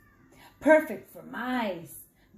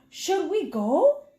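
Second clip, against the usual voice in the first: a touch higher, slow question; lightly voiced Mommy Mouse; 5 semitones higher, 4 dB louder, slower than usual. Mommy Mouse asking Papi, lightly voiced. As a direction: ask it a little timidly. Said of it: "Mommy Mouse asked".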